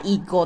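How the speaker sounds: いご (maigo) with MA high, then falling; head-high accent. Shown as a demonstration. Teacher shows listeners the first pattern on いご, head-high accent. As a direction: start high and drop through いご. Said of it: "最初の音節が高く、それ以降の音節が低い".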